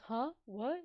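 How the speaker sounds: fake-innocent, rising high and loud on oopsies; mock innocent. Boyfriend feigning innocence at the glaring lady, mock-innocent. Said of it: "Leon's just like".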